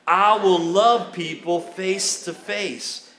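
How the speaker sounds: slow emphatic declaration of commitment; like you mean it. Shown as a demonstration. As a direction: say it with full conviction. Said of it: "Now say it like you mean it".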